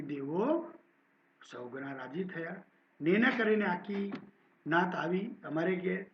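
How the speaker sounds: steady, clear story narration; story reading. A narrator's reading. Teacher reading a Gujarati story aloud to students, steady narration. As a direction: read the story to the class.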